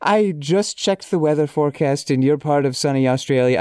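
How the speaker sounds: reading aloud in a lightly put-on Irish accent; a hint of hammy, amateur Irish brogue; awful Irish accent. Shown as a demonstration. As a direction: try a little bad Irish accent. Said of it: "I think I can drop the accent now".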